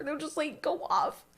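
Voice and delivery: ordinary delivery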